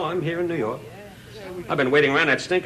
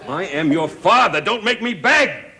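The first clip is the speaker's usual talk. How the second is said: pleading outburst; 4 semitones higher, 4 dB louder than usual. Acted. Father pleads with son on phone.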